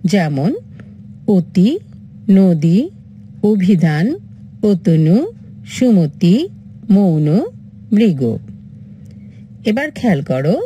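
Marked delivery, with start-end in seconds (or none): 1.3-8.2 each word said with অ closed to ও, অতি as "oti"; closed o examples. Shown as a demonstration. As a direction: read the list with clear o vowels. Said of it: "তাকে বলে সংবৃত".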